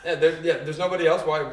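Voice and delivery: ordinary talk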